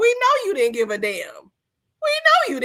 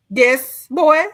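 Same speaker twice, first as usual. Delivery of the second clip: louder, imperious call through the door; haughty lady of the house; 7 dB louder than usual. Acted. Host voicing Stella calling her houseboy, louder and imperious. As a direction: answer like a lady summoning her servant. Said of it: "You probably gave Stella a bath".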